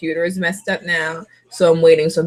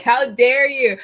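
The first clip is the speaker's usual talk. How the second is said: mock outrage; 4 semitones higher, slower than usual. Retold quarrel with mom.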